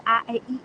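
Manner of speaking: A, E, I stretched wide with big mouth shapes; vowel drill. Shown as a demonstration. Repeating the warm-up for viewers, vowels stretched wide. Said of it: "you do that multiple times".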